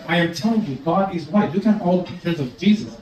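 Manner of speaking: lightly put-on English accent, insisting; a hint of mock English accent, controlled. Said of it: "a white guy with a perfect English accent".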